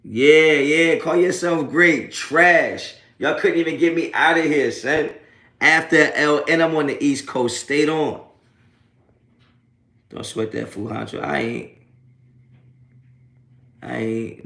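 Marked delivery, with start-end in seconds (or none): 0.0-8.2 higher and louder, slow mocking gloat. Real, not acted. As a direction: crow over the trolls, loud. Loud gloating at trolls.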